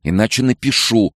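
loud fast high furious order; angry shout. A narrator's reading. Head doctor yelling at Nicole to get out. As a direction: throw her out, shouting.

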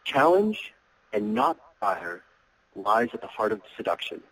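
slow, weighty quote delivery; slow quoted line. Shown as a demonstration. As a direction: read the quote slowly and deliberately. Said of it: "It goes like this".

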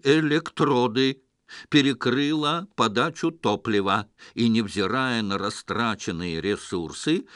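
a hint of an even robot voice; металлический голос. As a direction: explain it like a flat machine. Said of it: "голос подробно пояснил". (ровный металлический голос)

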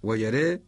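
ويرى said as wa-yaree, ending on a long e; original form with imala. Shown as a demonstration. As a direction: tilt both last vowels of ويرى toward e. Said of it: "الأصل ويرى".

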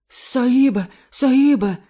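high, loud panicked gasps; gasping wheeze. Acted. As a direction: gasp it out in terror, out of breath. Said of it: "прохарчав норець і, хапаючи ротом повітря".

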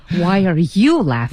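真实的质问. Shown as a demonstration. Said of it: "很真实的那种".

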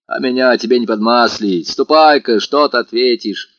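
put-on commanding housekeeper grilling the young man; domineering. A narrator's reading. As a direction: bark questions like the mistress of the house. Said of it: "как власть имеющая".

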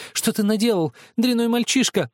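high, loud furious sister; angry shout. A narrator's reading. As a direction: scream at the boy in fury. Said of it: "закричала она". (сердитый крик)

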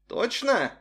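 suspicious. A narrator's reading. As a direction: probe her with suspicion. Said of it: "подозрительно спросил Арсений".

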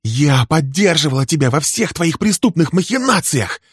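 high, loud, raging accusations; furious tirade. Acted. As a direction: unload years of grievance at him. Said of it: "Её глаза метали молнии".

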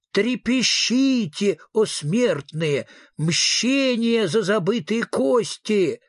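high, slow, eerie ghostly proclamation; ghost's wail. Acted. Ghost warns the mortals about forgotten bones, slow eerie wail. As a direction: draw each word out like a wailing spectre. Ghost announces itself at midnight.

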